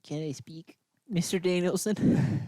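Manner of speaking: unvoiced whisper asking to speak; mock timid whisper. Cohost whispering a request to interrupt the host. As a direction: whisper like a shy schoolkid.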